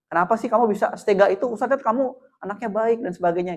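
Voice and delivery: soft, patient invitation to talk; gentle empathy. Shown as a demonstration. Teacher inviting a student to tell his side, gentle. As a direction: coax the story out kindly. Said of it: "Dengan empati".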